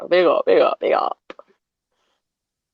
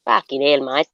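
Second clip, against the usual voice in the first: put-on South African accent; 4 semitones lower than usual. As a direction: fake South African twang. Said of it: "Was that your South African accent?".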